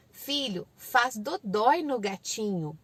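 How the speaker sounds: put-on slow, simple toddler-directed phrases; unhurried parent teaching; gentle correcting parent. Shown as a demonstration. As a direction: kindly explain to a small child.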